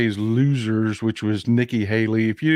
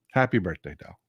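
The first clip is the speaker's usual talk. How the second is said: softer, lower birthday wish; a softer, fond repeat; tender birthday wish; 7 semitones lower, 5 dB quieter than usual. Real, not acted. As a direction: say it gently, like to a dear friend.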